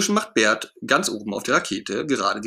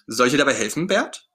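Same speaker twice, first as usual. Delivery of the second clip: excited. Acted. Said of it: "fragt Ernie ganz aufgeregt".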